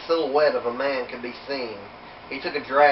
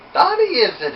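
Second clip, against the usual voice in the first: high amused chuckle, louder; chuckling; 12 semitones higher, 7 dB louder than usual. A narrator's reading. Irishman teasing Danny's name, chuckling. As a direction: tease the name with a laugh. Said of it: "he said with a chuckle".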